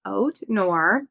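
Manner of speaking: slow East Coast noir, O and R close together; East Coast accent. Shown as a demonstration. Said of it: "that was my East Coast accent".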